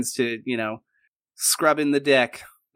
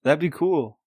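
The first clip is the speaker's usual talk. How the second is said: slack jawed, slow witted; a lightly voiced dopey sailor; slower than usual. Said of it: "He's got a dopey sound to his voice".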